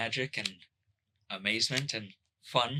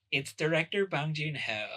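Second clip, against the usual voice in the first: put-on Valley girl voice; 5 semitones higher than usual. Shown as a demonstration. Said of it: "that's not your actual voice".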